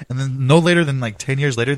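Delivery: ordinary talk, nothing marked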